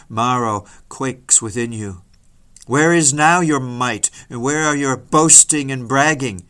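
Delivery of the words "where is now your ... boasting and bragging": loud, forceful rhetorical demand; thundering challenge. Acted. Preacher to sinner over the abyss, thundering challenge. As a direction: hurl the questions at the sinner.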